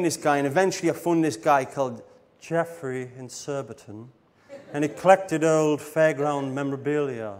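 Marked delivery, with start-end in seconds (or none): 2.4-7.3 imitating an odd collector's way of speaking; lightly put-on eccentric collector voice; Jeffrey. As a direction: mimic a strange memorabilia collector. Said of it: "That's the way he spoke".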